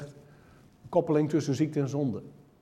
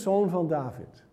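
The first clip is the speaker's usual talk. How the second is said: solemn slow title; 3 dB quieter than usual. Shown as a demonstration. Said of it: "Dat is een geloofsbelijdenis".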